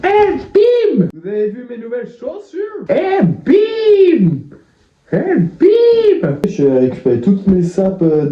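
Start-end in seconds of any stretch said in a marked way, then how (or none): 0.0-1.1 very high, drawn-out squeal; showy exclamation. Pretend. Vlogger flaunting new purchases to viewers, high squealed exclamation. 1.1-2.9 very high, small squeaky voice; showy boast. Pretend. Vlogger asking viewers about the new shoes, soft high squeak. 2.9-6.4 very high, drawn-out squeal; showy exclamation. Pretend. Vlogger flaunting new purchases to viewers, high squealed exclamation.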